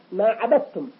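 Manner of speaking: dal in "عبدتم" becomes t; assimilated dal. Shown as a demonstration. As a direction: say "عبدتم" with one doubled t. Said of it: "كأن الدال تحولت إلى تاء". (تحويل دال "عبدتم" إلى تاء)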